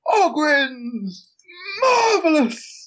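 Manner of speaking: high, delighted shout with a laugh; joyful shout. Acted. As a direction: greet them like old friends, arms wide. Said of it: "Throw my arm wide and shout".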